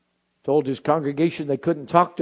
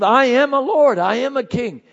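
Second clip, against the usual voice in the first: proclaiming declaration; 9 semitones higher, 6 dB louder than usual. Acted. Preacher declares a creed.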